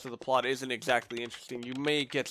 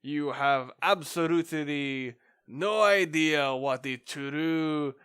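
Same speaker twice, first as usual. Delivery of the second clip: mock villain laughing, slow taunting; gloating scientist; slower than usual. Scientist taunting the police detectives, slow gloating villain.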